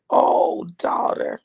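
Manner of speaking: hushed, tender "oh, daughter"; gentle, moved father. Retold or imitated. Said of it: "And he said".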